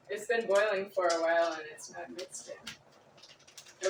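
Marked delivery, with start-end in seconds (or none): 1.5-3.9 much softer, slow, drawn-out mumble; quiet slow grumble to yourself over the pot; slow quiet repeat. Real, not acted. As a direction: let it trail off slowly under your breath. Repeats stirring remark while cooking.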